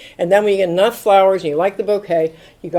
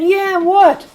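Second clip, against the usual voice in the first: surprised what; 12 semitones higher, 6 dB louder than usual. Retold or imitated. Retold thought, surprised.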